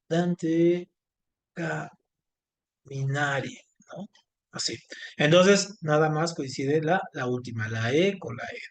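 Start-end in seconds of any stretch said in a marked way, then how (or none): 0.1-3.5 slow drawn-out demo word. Shown as a demonstration. Teacher to class, showing a rhyme word, very slow. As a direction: draw "caminare" out very slowly. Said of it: "pongo, este".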